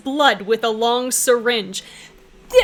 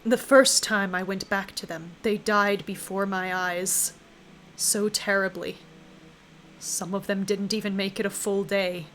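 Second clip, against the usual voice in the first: a lightly voiced ancient being mourning deaths; the Endless, sorrowful; 3 semitones lower, 7 dB quieter than usual. Game master voicing the Endless to the party, grieving.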